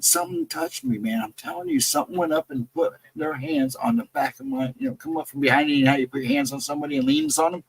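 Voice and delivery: rushed, high, insisting something touched him; spooked camper swearing a hand was on him, panicky; freaked out. Retold or imitated. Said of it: "He's freaking out".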